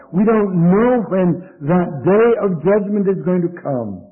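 earnest sermon warning, driven on phrase by phrase; emphatic preaching. Real, not acted. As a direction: preach it with urgency, pitch lifted. Preaches with rising force.

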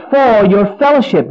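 "for" and "fellowship" picked out; stress on connecting phrase. Shown as a demonstration. Preacher showing why Paul gives thanks, emphatic on "for your fellowship". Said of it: "here's the connecting word".

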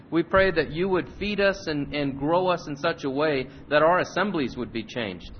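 earnest, measured prayer to the Father. Acted. Pastor praying before the Bible lesson, earnest prayer voice. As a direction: pray it sincerely over the congregation.

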